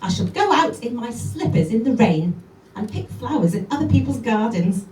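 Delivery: brisk lively recitation of a poem; poem reading. Acted. Comedian reads Jenny Joseph poem to the audience: lively recitation. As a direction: read it out with relish.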